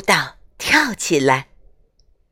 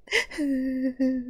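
soft sob; 5 semitones higher, 11 dB quieter than usual. Acted. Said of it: "眼泪就像断了线的珍珠".

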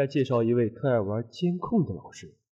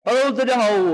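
excited; 10 semitones higher, 6 dB louder than usual. Real, not acted. Host opening shouts greeting.

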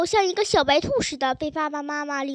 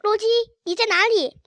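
higher, mildly plaintive call; tearful calling; 5 semitones higher, 3 dB louder than usual. A narrator's reading. Crying child calls for the missing dog, understated tearful call. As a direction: call out for the lost dog, a touch upset. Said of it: "他一边哭一边呼唤着洛基".

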